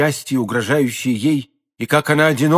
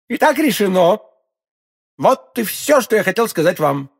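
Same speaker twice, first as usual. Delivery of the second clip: raised voice, coldly final; cold cruelty; 6 semitones higher than usual. A narrator's reading. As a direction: pronounce it like a merciless verdict. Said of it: "с той холодной жестокостью".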